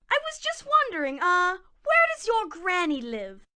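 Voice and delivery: sweet-talking wolf voice, breathy hello; wolf playing friendly; sly big bad wolf. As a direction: lure the little one in like a smooth-talking wolf. Wolf asks slyly.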